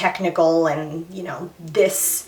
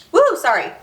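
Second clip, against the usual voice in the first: emotional release; 10 semitones higher, 4 dB louder than usual. Real, not acted. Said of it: "Hormones, guys".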